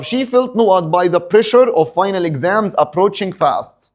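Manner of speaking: reads the English sentence slowly and deliberately; slow exam reading. Shown as a demonstration. Teacher reads the exam question to students, slow and deliberate. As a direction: dictate each word to the class.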